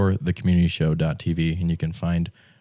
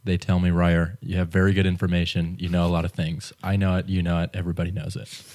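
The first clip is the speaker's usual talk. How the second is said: Donald Trump. Retold or imitated. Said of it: "That's my Donald Trump impression".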